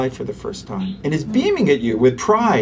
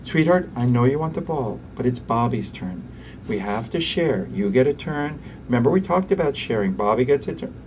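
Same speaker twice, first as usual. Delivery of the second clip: calm parent. Retold or imitated. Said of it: "the way you're talking sounds like some kind of psychiatrist".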